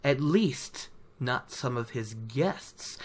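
a lightly voiced sly storyteller, hinting; sly gleeman Tom. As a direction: slip the hint in sideways, knowingly. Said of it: "He's like".

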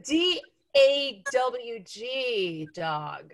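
D A W G dog spelled out very slowly, landing on dawg. Pretend. Guest spelling dog the Southern way for the hosts, slow and careful. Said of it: "your first Southern test".

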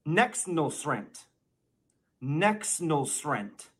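slow, mashed-up Nexnosrent, said like one word; mock Biden mumble. Shown as a demonstration. Teaching kids the garbled Biden word, slow and deliberate. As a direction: teach Nexnosrent slowly, syllable by syllable. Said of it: "The first word I'm going to teach you today is".

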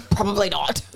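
laughing echo of her words. Retold or imitated. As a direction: giggle through the repeat. Echoing partner while laughing.

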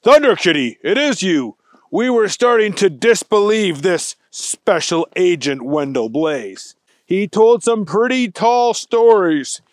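emphatic storybook police chief; a touch of hearty official; lightly voiced police chief. Police chief greeting Thunder Kitty, lightly voiced. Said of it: "The chief of police said".

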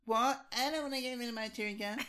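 high, whiny protest; whiny wife impression. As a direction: whine like a spoiled wife. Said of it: "And you're like".

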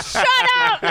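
mock whine. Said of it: "He's like".

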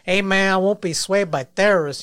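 hammed-up Hispanic accent, with Hey man. Shown as a demonstration. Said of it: "I should say it in the Hispanic accent".

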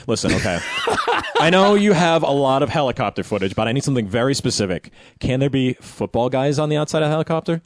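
hammed-up customer making a very particular request; demanding footage buyer. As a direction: pitch an absurdly specific order to a supplier. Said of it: "go to the stock footage guy and be like".

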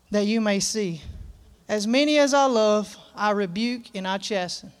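preacher solemnly reading scripture aloud. Acted. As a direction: read the verse out deliberately to the congregation. Reads scripture aloud to congregation.

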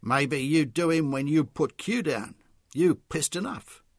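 slow, loud taunting Charlie voice; Charlie mocking. A narrator's reading. Charlie taunting the drunk white man, slow and mocking. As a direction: sneer it out slowly.

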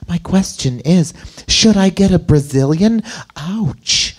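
lightly voiced woman letter-writer; a hint of a girlish reading voice; girl talking. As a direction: read it as the girl, pitch lifted on key phrases. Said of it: "the girl talking".

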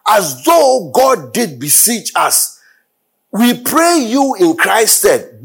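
high, slow preached quotation; fervent scripture proclamation; preaching at full force. Acted. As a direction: lift the verse up slowly for the church. Preaching Paul's words.

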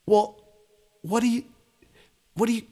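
high, mocking what are you gonna do now; bandmates' mock challenge. The band staring at him on stage, high mock challenge. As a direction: goad him like an impatient bandmate. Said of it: "band's just looking at me like".

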